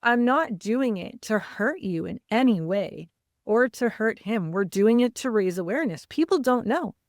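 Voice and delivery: retold mild indignation with swooping pitch; upset, offended. Dad defending himself to his daughter, mildly offended retelling. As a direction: imitate a dad protesting, lightly wounded. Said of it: "he was really upset and really offended".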